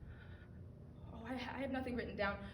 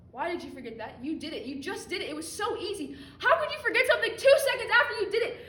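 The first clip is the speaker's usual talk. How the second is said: building to a loud, higher, laughing rant; escalating self-scolding; 7 semitones higher, 12 dB louder than usual. Acted. Scolding herself for forgetting, building to a loud rant. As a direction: tear into yourself harder and harder.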